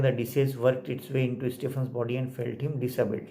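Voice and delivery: slow, word-by-word textbook reading; slow dictation. Acted. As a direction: read it out slowly like dictation. Reads textbook sentence aloud. (धीरे धीरे इमला की तरह)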